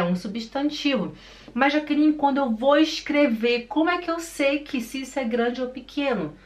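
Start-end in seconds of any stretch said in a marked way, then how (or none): 1.5-6.3 lightly voiced puzzled student, higher pitch; raised, questioning student voice; student's question. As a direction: pose it as a learner would.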